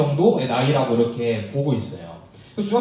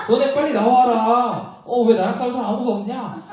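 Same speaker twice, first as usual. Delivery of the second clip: mocking taunt; 5 semitones higher than usual. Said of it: "약 올리고 조롱하고 있는 거예요".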